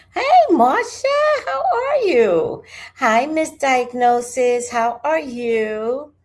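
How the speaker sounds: very high, sing-out hello; loud, drawn-out squeal of welcome; effusive greeting. Real, not acted. Streamer greeting viewers as they join, delighted and high-pitched.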